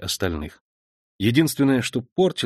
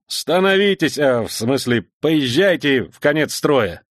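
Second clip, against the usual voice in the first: flustered officer; 4 semitones higher, 4 dB louder than usual. Acted. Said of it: "беспомощно посмотрел".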